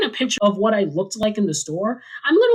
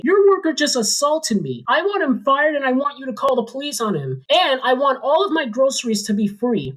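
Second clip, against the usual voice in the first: whiny complaint; 4 semitones higher than usual. Retold or imitated. Karen complains to manager.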